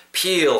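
pill drawn out with a long ee; wrongly long vowel. Shown as a demonstration. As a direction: stretch pill until it sounds like peel. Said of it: "하시면 안 됩니다". (pill을 '피일'처럼 길게 발음)

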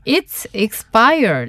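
drawn-out model phrase, It's expired; very slow repeat-after-me. Shown as a demonstration. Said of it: "뭐라고 한다고요?".

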